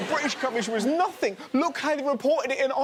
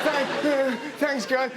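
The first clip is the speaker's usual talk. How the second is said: breathy nervous man impression. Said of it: "sounds like he's having a mini orgasm".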